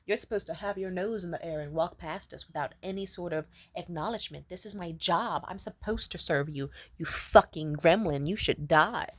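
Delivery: lightly voiced sneering waiter; snobby waiter. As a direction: sneer down at the peasant guest. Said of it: "they'll be like".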